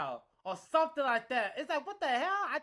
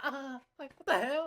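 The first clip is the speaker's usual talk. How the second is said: gay best friend. Retold or imitated. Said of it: "a gay best friend sometimes".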